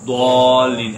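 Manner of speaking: ضالین pushed with the sound spilling toward ain; wrong demo. Shown as a demonstration. Teacher warns students of the ain-like slip. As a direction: say ضالین the faulty way. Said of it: "ایسے کریں گے".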